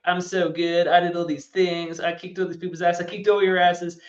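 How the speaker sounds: a hint of a gloating champion listing his wins; Russell Hand impression. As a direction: brag at final tribal like a cocky winner. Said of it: "That was my impression of Russell Hand".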